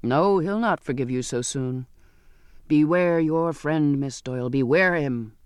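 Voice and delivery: a hint of a gruff sailor; scornful sailor. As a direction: warn her with bitter mockery.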